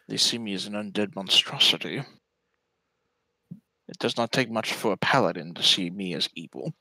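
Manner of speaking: measured, resigned undead scholar; a misjudged lich calmly explaining himself; lightly voiced Renwick the lich. Game master plays Renwick.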